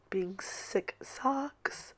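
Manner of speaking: breathy whispered grumble; whispered aside. Real, not acted. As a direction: drop to a slow whisper.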